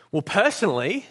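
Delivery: "personally" given a deliberate emphasis; emphatic personally. A narrator's reading. Big ghost answers the man in heaven, emphatic "personally". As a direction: lean on the word "personally". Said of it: "with an emphasis that contradicted the ordinary emphasis".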